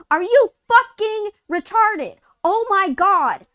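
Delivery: real exasperated yell, slowing on the last words; furious outburst. Real, not acted. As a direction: blow up at the absurdity. Furious rant at payment processors.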